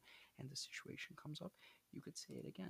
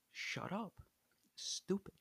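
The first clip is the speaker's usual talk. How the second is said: put-on loud boys' answer; 6 semitones higher, 6 dB louder, much slower than usual. Boys answer the cop.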